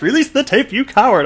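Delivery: high, loud mock yell through a laugh; all caps shout. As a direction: yell it even bigger, laughing. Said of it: "In all caps".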